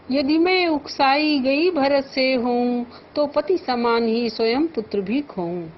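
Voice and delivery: measured, lifted verse recitation; poem recital. Shown as a demonstration. Teacher reciting verse to the class. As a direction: recite the couplet with feeling.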